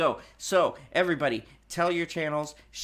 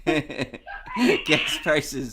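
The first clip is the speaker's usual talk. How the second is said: laughing; much slower than usual. Real, not acted. Reading news while cracking up.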